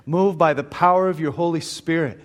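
prayer. Real, not acted. Pastor asking God to bless the men's study, prayerful. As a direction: lead the men in prayer, settled and reverent.

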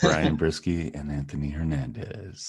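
lightly put-on radio announcer; podcast DJ voice. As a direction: announce the dedication show in a mock host voice. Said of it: "talking like this for the podcast".

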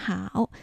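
好 as Mandarin hao, dipping third tone. Shown as a demonstration. Teacher models 好 for learners, dipping third tone. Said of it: "三声と発音します".

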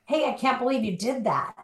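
lilting, upbeat 'can't believe it'; light friendly disbelief. Shown as a demonstration. Speaker showing how a text could be read, light friendly disbelief. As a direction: say it as playful, pleased amazement. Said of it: "Two totally different things".

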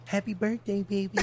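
tag omitted. Retold or imitated. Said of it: "Charles like".

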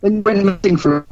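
choppy bad connection; breaking up space radio. Real, not acted. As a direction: voice cutting out on a call. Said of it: "Oh, you're breaking up".

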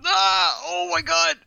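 high startled cry of disbelief; shocked shout. Real, not acted. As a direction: yelp in shock at the roll. Reacting to a minus one roll.

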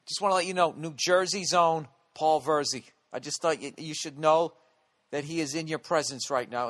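hammed-up gentleman presenting a celebrity; mock polite introducer. Comic to women walking by, introducing his friend, mock formal announcer. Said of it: "I'd be like".

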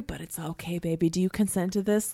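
soft cooing mock reassurance; mock soothing. To her stage partner, soft mock-tender reassurance. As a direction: coo at them like a partner you're about to hit. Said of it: "it's just like".

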